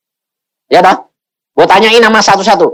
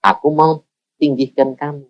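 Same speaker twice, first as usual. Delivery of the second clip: God's voice; 6 dB quieter than usual. Retold or imitated. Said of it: "Tuhan ngomong lagi".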